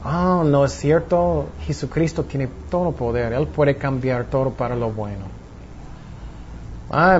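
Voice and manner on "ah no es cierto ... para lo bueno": reassuring inner voice. Pretend. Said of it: "me siento deprimido".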